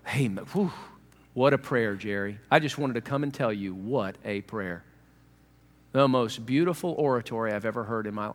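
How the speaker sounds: lightly acted awe, low and hushed; low murmur of admiration for a fine prayer; awestruck admirer.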